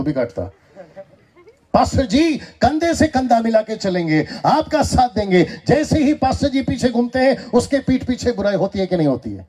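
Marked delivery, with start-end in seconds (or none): 1.7-9.5 forceful preaching. Acted.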